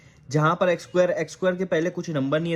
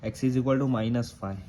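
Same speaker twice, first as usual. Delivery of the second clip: very slow, spelling out the answer; slow dictation; much slower than usual. Shown as a demonstration. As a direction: dictate it word by word. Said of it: "क्या हो जाएगा". (धीरे-धीरे बोलकर लिखवाना)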